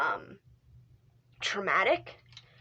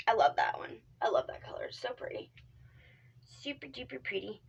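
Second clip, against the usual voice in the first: soft unvoiced whisper; 2 semitones higher, 5 dB quieter than usual. Real, not acted. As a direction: hush it, like a quiet aside. Whispers while picking makeup colors.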